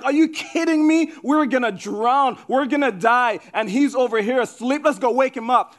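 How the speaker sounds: freaking out. Acted. Disciples on a sinking boat, talking among themselves, freaking out. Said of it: "the disciples are freaking out".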